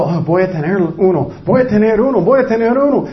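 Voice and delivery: a worrier working himself up, rising; imitating someone panicking about a heart attack; mounting panic. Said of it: "Están preocupando".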